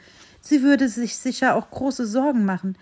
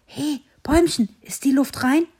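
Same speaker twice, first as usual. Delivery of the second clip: grinning; 6 semitones higher, 5 dB louder than usual. Acted. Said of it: "fragte er grinsend".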